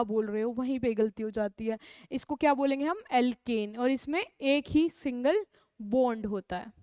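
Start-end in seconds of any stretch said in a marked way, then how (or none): 3.1-3.8 एल्केन said clearly, each syllable distinct; careful pronunciation. Shown as a demonstration. Teacher modelling the name for confused students: careful, clear एल्केन. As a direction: model एल्केन slowly and cleanly for the class. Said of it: "ध्यान से इसकी pronunciation सुननी है".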